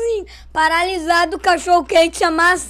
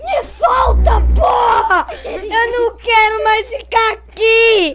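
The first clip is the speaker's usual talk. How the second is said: berro agudo encenado, terminando arrastado; grito desesperado; 5 semitones higher, slower than usual. Retold or imitated. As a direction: imitar criança se debatendo, aos gritos. Criança segurada pelos médicos, gritando. (escândalo choroso de criança)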